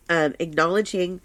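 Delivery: stuffy nose after crying; snotty crying. Real, not acted. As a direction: speak through a snotty nose after tears. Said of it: "I'm all snotty from my crying".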